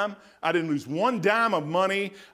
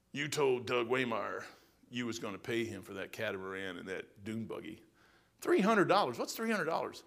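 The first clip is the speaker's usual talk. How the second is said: low, soft, hushed words from God; quiet voice of God; 7 semitones lower, 9 dB quieter than usual. Retold or imitated. God confronting the preacher during prayer, in a low hush. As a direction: drop to a hush for God's voice.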